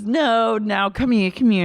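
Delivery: imitated insistent husband. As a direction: act out an insistent "come here". Acting husband pulling wife in.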